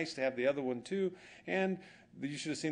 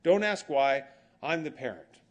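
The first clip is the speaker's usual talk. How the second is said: firm, raised parental voice; mock-stern parent; bossy parent, louder; 3 semitones higher, 6 dB louder than usual. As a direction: lay down the law as a parent. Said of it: "And you go".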